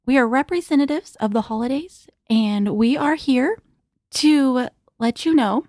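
holiday voice. Acted. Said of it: "I love your holiday voice".

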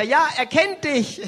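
high, loud, drawn-out call; echoed preacher shout. Retold or imitated. Interpreter echoing the preacher's answer, high and loud. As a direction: copy the shout, a little smaller.

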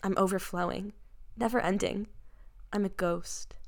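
hammy dramatic reading. Pretend. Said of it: "read it dramatically".

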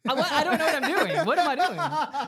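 speechless stammer. Real, not acted. Confused by the cryptid argument.

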